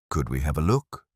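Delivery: mildly put, unforced question; mild request. A narrator's reading. Inspector asking to see the vestry cupboard, mild. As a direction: ask it mildly, without pressing. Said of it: "Pirbright asked mildly".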